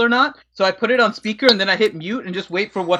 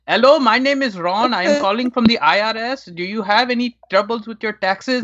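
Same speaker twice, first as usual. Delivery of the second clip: scam caller voice; 2 semitones higher than usual. Retold or imitated. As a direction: read it like a phone scammer script. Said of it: "the phone call of".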